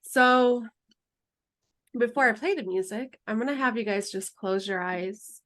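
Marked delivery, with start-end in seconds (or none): 3.3-5.4 calm, unhurried meditation guide voice; guided meditation. Acted. Guide leading students through closing meditation, calm and unhurried. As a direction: lead the group gently into stillness. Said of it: "end just with the closing meditation".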